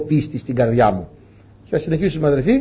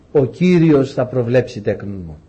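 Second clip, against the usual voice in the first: father's answer; 5 semitones lower, slower than usual. Acted. Abraham answers his son.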